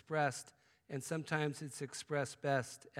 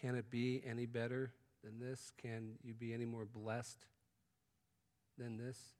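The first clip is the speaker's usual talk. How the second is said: hushed wonder; 2 semitones lower, 5 dB quieter than usual. Retold or imitated. Grateful friend quietly marvelling at blessings in wonder. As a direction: count your blessings under your breath. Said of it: "you just go".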